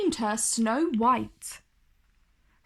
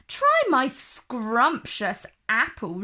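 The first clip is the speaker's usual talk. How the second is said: cooing. Acted. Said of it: "she cooed".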